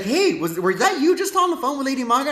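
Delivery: lightly voiced friend asking with a laugh; imitating friend. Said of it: "He's like".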